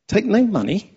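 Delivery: high, soft disbelieving question; incredulous echo. Shown as a demonstration. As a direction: repeat it back in mock disbelief.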